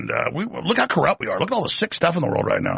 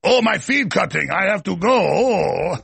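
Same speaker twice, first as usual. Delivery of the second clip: evasive Russian host; 3 semitones higher, slower than usual. Retold or imitated. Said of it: "They go".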